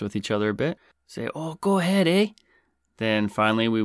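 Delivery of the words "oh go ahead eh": high-pitched over-polite Canadian; high mock-courteous voice. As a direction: imitate yourself being excessively courteous, pitched way up. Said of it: "each politely suggests that the other".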